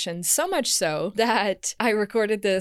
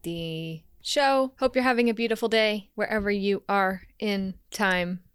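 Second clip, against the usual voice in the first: robot voice. Real, not acted. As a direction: talk like a stiff robot. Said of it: "I'm talking like a robot right now".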